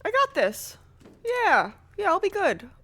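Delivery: high, loud pumping herself up; nervous self-pep talk. Real, not acted. Gamer psyching herself up, nervous and loud. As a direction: talk yourself into being brave.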